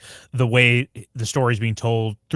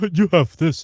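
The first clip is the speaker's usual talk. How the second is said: gruff voice; 7 semitones higher, 5 dB louder than usual. Shown as a demonstration. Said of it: "it's more gruff".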